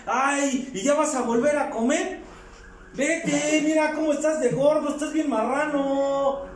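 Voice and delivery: mock the mother calling him fat; scolding mother. Madre regaña al hijo por comer. (madre regañando al hijo, en tono más agudo)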